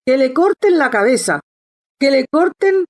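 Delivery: a hammed-up royal rage, pitch rising; wild shouting. A narrator's reading. The furious Queen orders Alice's head off: mock shout. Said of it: "comenzó a gritar desaforadamente".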